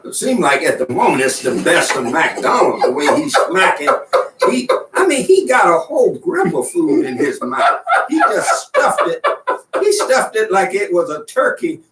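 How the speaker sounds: talking through real laughter at the cohost; laughing while teasing. Real, not acted. Host laughing at his cohost's stuffed mouth, laughing. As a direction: crack up as you tease him about the food.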